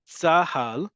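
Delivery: "Tzahal" as tsa-HAL, two crisp syllables; two clear syllables. Shown as a demonstration. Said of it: "two syllables".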